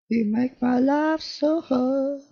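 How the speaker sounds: high, slow, soft whiny complaint; mock plea to the game, high and drawn out; mock whine. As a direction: whine it like a put-upon child.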